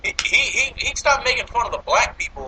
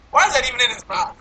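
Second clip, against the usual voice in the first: higher-pitched question through laughter; laughing disbelief; 4 semitones higher than usual. Real, not acted. Reviewer mocking the lit bullet cigar, laughing disbelief. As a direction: ask it incredulously while cracking up.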